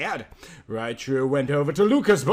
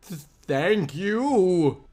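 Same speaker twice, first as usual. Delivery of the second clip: tearful thanks; much slower than usual. Acted. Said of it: "Mina equals Chan cried".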